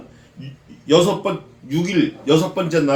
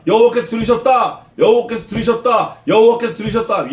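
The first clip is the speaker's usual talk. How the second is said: higher, emphatic repeated declaration; insistent proclamation; 4 semitones higher, 4 dB louder than usual. Retold or imitated. Preacher hammering Moses' warning to the congregation, insistent and raised. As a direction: drive each repetition home like a warning.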